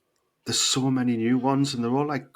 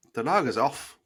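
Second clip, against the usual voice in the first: self-conscious stab at Scottish; attempted Scottish accent. Bracing for another failed try, attempted Scottish accent. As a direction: have a careful go at Scottish, unconvincingly. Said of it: "I can't do it".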